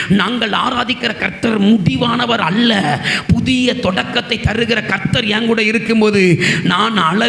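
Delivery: slow, drawn-out declaration of faith; measured, ringing pulpit proclamation; emphatic preaching. Real, not acted. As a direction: proclaim each phrase with steady force, stretching key words. Preaches a declaration at full force.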